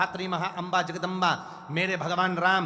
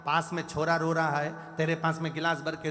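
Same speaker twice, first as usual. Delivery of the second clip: annoyed mother-in-law. Retold or imitated. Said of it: "सास को गुस्सा आ गया।".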